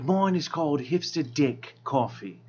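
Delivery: lazy know-it-all barista voice; bored ironic hipster. Acted. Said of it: "that's my hipster voice".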